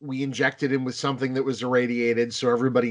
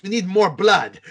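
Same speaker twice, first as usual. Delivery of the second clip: director's eager demand; 6 semitones higher, 5 dB louder than usual. Retold or imitated. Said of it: "He goes".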